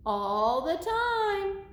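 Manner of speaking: high, slow, stretched-out words; assuring Piggy. Acted. Piggy telling Gerald everybody pretends, playful assurance.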